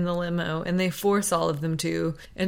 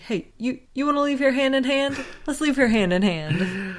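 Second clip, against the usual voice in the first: imitating Jack; 6 semitones higher than usual. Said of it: "he keeps just saying".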